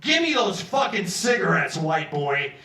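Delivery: loud gruff demand. Retold or imitated. Cellmate demanding the cigarettes, loud and menacing. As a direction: bark it at the white boy. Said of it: "he's like".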